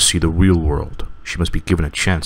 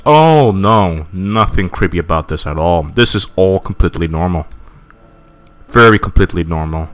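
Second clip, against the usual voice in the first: sarcastic. Real, not acted. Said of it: "mock reassurance".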